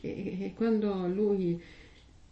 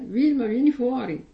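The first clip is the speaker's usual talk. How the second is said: "Vilma, vieni fuori" called out louder; calling by name; 3 semitones higher, 5 dB louder than usual. Pretend. Priest imagining God calling a believer by name, louder call. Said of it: "saremo chiamati col nostro nome".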